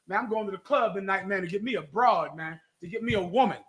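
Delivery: low, soft mock bro talk; lightly voiced guy bragging about going out; imitating a brother. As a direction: lay it back like the guys at the club. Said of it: "I've heard brothers say".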